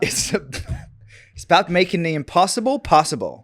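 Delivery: hammed-up California delivery; California accent attempt. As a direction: push the line out in a Californian accent.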